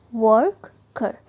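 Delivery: वर्कर stretched very slowly as वर्क-कर; slow drawn-out word. Shown as a demonstration. Teacher demonstrating the word for students, very slowly. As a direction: draw वर्कर out slowly, syllable by syllable. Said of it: "next देखिए वर्कर".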